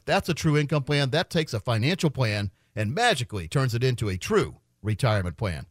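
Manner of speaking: steady radio sales pitch; infomercial. Acted. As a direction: pitch the offer like a radio host. Live on-air ad pitch.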